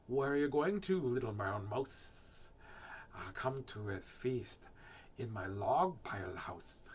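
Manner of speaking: slithery snake, drawing out the endings; sibilant, lowering snake voice; snake character. Acted. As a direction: invite the mouse like a storybook snake.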